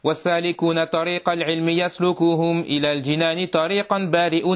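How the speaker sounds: measured chanting of Arabic verse, evenly pitched; verse recitation. Acted. Teacher reading a didactic poem to students, verse recitation. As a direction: recite the poem line by line in a steady cadence.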